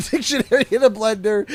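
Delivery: laughing. Real, not acted. Repeating laughing.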